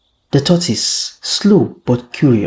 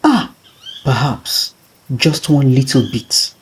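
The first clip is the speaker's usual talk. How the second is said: lightly voiced tortoise weighing a small theft; a hint of a tempted trickster. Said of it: "He chuckled to himself".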